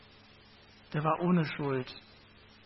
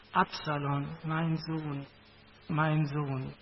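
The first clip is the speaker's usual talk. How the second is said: weeping lament; slower than usual. Acted. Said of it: "er stieg weinend".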